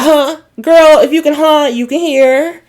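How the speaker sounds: high, sassy clapback with a laugh; imitated sass, laughing through it; sassy attitude. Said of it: "she got a stank attitude".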